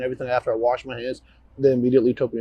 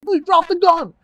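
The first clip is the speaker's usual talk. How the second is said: desperate commanding shout, much higher and louder; yelling; 8 dB louder than usual. Retold or imitated. Officer re-enacting his shout at the fleeing gunman, full yell. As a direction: scream the order like the suspect is armed. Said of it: "I was yelling".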